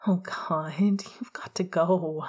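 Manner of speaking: slow, pleading whine; breathy slow whine; whining. Acted. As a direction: drag it out like you can't bear it. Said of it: "Sirius whined".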